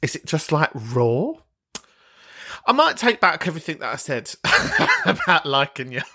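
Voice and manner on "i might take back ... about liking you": talking through giggles; laughing tease. Real, not acted. Host taking back her liking, laughing. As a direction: let laughter break into the teasing retraction. Teasing the caller while laughing.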